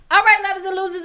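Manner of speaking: loud, high hype announcer. Acted. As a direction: boom it out like a fight announcer. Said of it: "let me get my announcer voice on".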